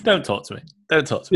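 teasing "leave me alone" act; mock haughty. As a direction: playfully pretend to be too important for them. Mocking co-host's haughty no-contact spiel.

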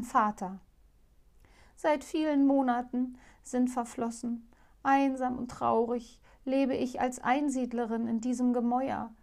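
a hint of a sad cursed princess; owl princess lamenting. Owl princess tells her curse.

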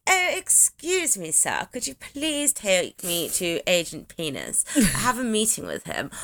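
politely lost little lady; little old lady. Retold or imitated. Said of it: "this little lady that wanders in going".

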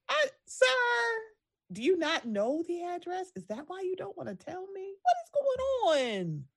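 high, soft, baffled pleading; incredulous questioning. Retold or imitated. Host questioning the old passenger, incredulous. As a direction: climb into a high, stretched-out final question.

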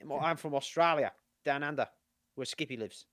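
amateur Australian impression; Australian accent. Shown as a demonstration. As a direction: play a standard Australian introducing himself. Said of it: "Australian accent".

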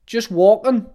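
high, loud shouted reply; shouted back. Retold or imitated. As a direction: call back across the street. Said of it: "his mate shouted back".

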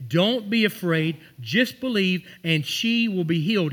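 reassuring Jesus. Acted. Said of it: "Jesus said".

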